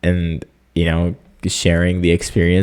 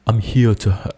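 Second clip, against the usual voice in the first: put-on a brief, half-hearted British accent, cut off; mock British accent; 4 semitones higher than usual. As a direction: start a British accent, then break off. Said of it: "activate British accent".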